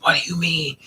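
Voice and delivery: hissed then sharp repeated question; imitating his rage; mock fuming whisper. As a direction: fume through it. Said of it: "he was like".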